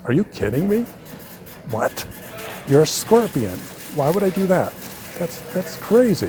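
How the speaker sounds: a frog that can't believe what it just heard; incredulous frog. Acted. Frog balks at the scorpion's request.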